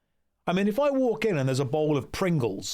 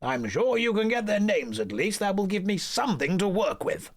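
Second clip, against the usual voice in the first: high, gushing society friend; high flamboyant voice; 3 semitones higher than usual. Acted. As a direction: greet your friend, high and delighted. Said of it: "I'm gonna do the voices for every character".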